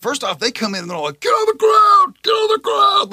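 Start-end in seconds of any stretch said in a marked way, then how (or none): 1.2-3.1 high, loud raid command; retold police shout. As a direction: shout it like armed agents bursting in. Retold agents storming the house.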